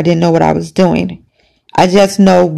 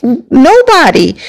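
scared; 5 semitones higher, slower than usual. Retold or imitated. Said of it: "like, scared".

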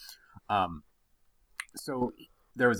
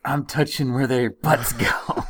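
put-on kid voice; 4 semitones higher, 5 dB louder, slower than usual. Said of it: "He's like".

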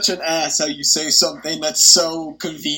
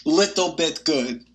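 phone held away; faster than usual. Real, not acted. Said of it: "Are you talking into the phone?".

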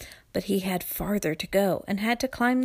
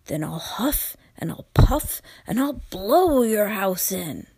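loud, menacing wolf voice; big bad wolf threat; 4 dB louder than usual.

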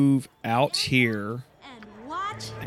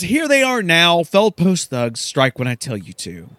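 commanding Silky; 4 semitones higher, 4 dB louder than usual. Acted. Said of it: "She then says".

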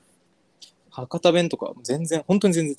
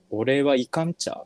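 slower Kitakyushu example with ちゃ ending; Kitakyushu dialect; much slower than usual. Shown as a demonstration. Guest giving an example from his hometown, Kitakyushu accent. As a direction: show off the Kitakyushu ちゃ ending slowly. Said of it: "北九州だと茶なんです".

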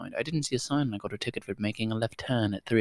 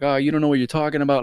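mocking customer; 6 semitones higher, 6 dB louder, faster than usual. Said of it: "saying shit like that".

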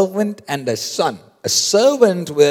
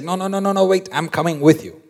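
insistent protest; 5 semitones higher, faster than usual. Acted. Acted Elisha insists on following.

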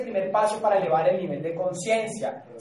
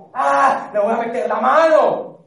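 voice of the impulsive mind; 2 semitones higher, 7 dB louder than usual. Retold or imitated. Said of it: "la mente llega y te dice".

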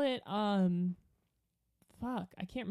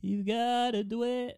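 slow, drawn-out singer impression; a drawling singer; slower than usual. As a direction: lightly imitate a drawling singer. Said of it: "Do your singer impression".

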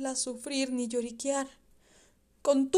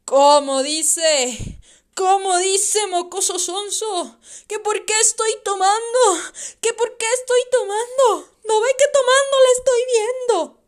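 loud, higher, raging; drunken outburst; 8 semitones higher, 10 dB louder than usual. Acted. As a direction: lash out at the boy, half crazed. Drunk father snaps at his son.

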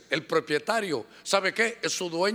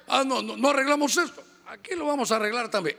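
mock fight threat; 5 semitones higher, faster than usual. Brothers fighting at the church entrance, threatening. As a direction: square up to the brother.

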